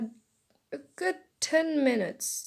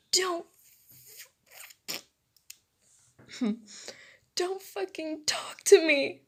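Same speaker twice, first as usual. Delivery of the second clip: angry yell; 7 semitones higher than usual. Acted. Jealous girl to classmate, yelling. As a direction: raise pitch and volume, furious. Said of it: "Uraraka yelled".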